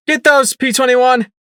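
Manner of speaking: high, loud shouted order; yell. Acted. Narrator ordering P twenty-one to grab the crates, yelling. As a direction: bark the order across the room. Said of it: "I yelled".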